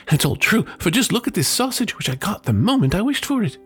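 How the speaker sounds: bubbling over with good news; excited chatter. Acted. Wife telling her husband about the wishes, excited. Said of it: "cried the woman".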